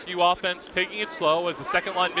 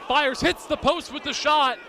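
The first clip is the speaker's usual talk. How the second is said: higher, slow shouted call off the post; excited call; 5 semitones higher than usual. Real, not acted. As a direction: call the near miss with a shout. Shot hits post, live call.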